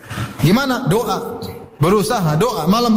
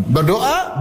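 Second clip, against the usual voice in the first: usual speaking voice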